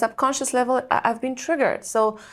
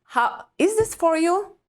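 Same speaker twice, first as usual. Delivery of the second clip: higher, pleading inner voice; anxious inner questions; 7 semitones higher than usual. Retold or imitated. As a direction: ask yourself anxiously.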